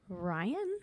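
tentative questioning Ryan?, soft and trailing up; unsure. Shown as a demonstration. Calling the doctor's name, unsure of her own life choices. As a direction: say Ryan? softly with a rising, doubting lilt. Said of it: "Say it like that, like I'm unsure of my own life choices".

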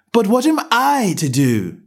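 put-on a well-mannered girl asking; young Alice. A narrator's reading. Alice asks.

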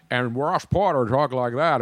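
lightly imitated sportscaster, slow and drawn out; slightly hammed-up old broadcaster; Ross Porter. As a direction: slip into a slow radio play-by-play impression. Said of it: "that was my Ross Porter impersonation".

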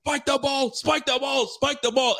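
high-pitched, repeated plea; frantic urging. Retold or imitated. Fan urging his team as time runs out, frantic. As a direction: yell it urgently at the screen.

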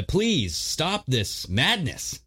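slow mock plea with big pitch swings; retold pleading. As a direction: plead it slowly, stretching the key words in imitation. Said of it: "they're pleading".

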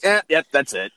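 mock listener giving up; dismissive listener. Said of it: "They're like".

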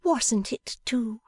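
mock pout. A narrator's reading. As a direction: sulk playfully. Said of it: "pretending to pout".

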